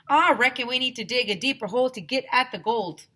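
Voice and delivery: Mister Burke advising teachers, southern prospector voice; southern miner. A narrator's reading. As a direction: talk like an old gold miner. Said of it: "he told him".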